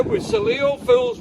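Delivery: sing-song. Real, not acted. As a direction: belt it out high and silly. Drunk man sings high.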